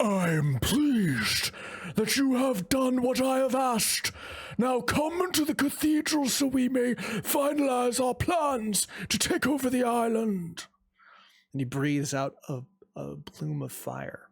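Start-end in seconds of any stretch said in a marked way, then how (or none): 0.0-10.6 thundering, booming, very high-pitched dragon shout. Game master voicing a dragon perched on the cathedral, shouting in a booming voice. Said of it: "it shouts out with a booming voice".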